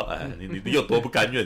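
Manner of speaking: usual speaking voice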